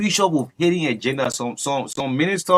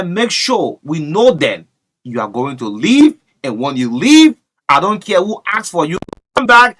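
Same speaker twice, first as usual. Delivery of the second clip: put-on Joseph Boyka voice; 6 dB louder than usual. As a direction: impersonate the president, firm. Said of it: "in the Joseph Boyka voice".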